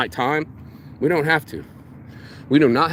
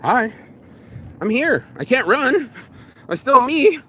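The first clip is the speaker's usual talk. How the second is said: nervous bold greeting; 9 semitones higher, slower than usual. Retold or imitated. Greeting fifty strangers at the Pittsburgh table, rising. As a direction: announce yourself defiantly to the room. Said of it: "I just went".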